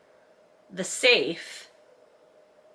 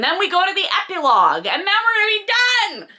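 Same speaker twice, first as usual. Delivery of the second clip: excited relief; 11 semitones higher, 3 dB louder, faster than usual. Real, not acted. Relief at finishing the book.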